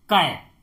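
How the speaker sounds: कै said low and clearly as the answer; sound of the syllable. Shown as a demonstration. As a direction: pronounce कै slowly for students to copy. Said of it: "केएआई को हम क्या पढ़ेंगे?".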